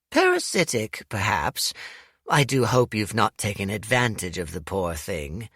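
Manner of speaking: lightly voiced granny, teasing and dry; amused old woman gently mocking; old lady teasing Dorian, lightly voiced; knowing old lady.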